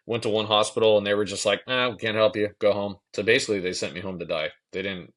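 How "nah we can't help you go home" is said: mildly mocked, louder dismissal; dismissive brush-off. Hospital staff turning a patient away, dismissive. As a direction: imitate staff curtly waving a patient away.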